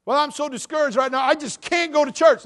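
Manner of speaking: mock whiny voice; whiny excuse. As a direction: whine it like a lazy excuse-maker. Mocking whiny churchgoer excuse.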